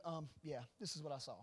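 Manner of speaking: lightly imitated stern, matter-of-fact delivery; Jacob. Son reporting what he saw, a touch stern. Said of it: "a little more stern in the way that he talks".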